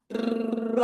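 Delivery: a short, lightly voiced "Bra." in Tarzan style; a playful Tarzan-ish "Bra."; little Tarzan bra. Shown as a demonstration. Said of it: "give yourself a little Tarzan".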